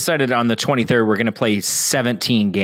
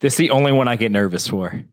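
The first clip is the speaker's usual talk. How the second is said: too close to mic; heavy breath on the mic; 3 semitones lower than usual. Real, not acted. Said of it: "stop breathing in the mic".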